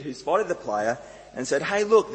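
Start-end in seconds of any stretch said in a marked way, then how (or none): 1.6-2.1 put-on excited kid. Child spotting a footballer.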